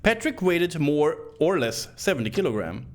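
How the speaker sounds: lightly high reading voice; a hint of crazy reading voice. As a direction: read the note like a possessed man. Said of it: "read all this in my crazy voice".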